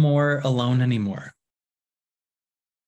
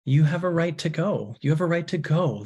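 higher, lifted release of a friend; liberating; 3 semitones higher than usual. Acted. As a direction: grant freedom with an open, higher voice. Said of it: "Love liberates".

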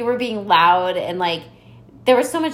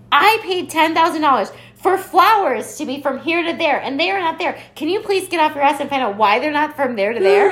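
mock bridezilla; 7 semitones higher, 4 dB louder than usual. Mocking the bridezilla's demand.

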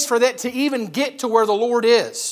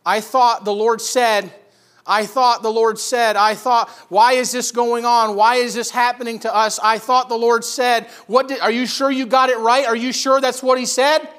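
raised, insistent, pressing protest; distressed questioning; 3 semitones higher, 4 dB louder than usual. Acted. Sisters to messengers as Lazarus gasps, distressed questioning. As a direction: build from disbelief into challenging questions.

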